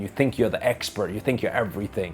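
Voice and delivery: retold insult with a touch of anger; frustrated heckler. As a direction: imitate an angry man taunting, lightly. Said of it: "the guy got more and more frustrated".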